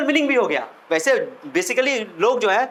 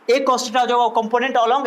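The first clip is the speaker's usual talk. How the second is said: slow dictation; much slower than usual. Shown as a demonstration. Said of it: "dictating phrase".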